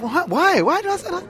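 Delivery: high-pitched, surprised questioning; taken aback. Real, not acted. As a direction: jump up in pitch, startled by the remark. Reacting to being called hostile.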